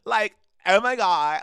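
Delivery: loud, high gush of delight; can't believe it's real; thrilled squeal of joy; giddy disbelief. Real, not acted. Overwhelmed joy.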